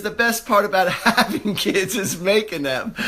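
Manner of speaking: quoting the joke through a laugh; can't finish the line without laughing; chuckling through a borrowed one-liner; laughing quote. Retold or imitated. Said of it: "Rodney Dangerfield once said".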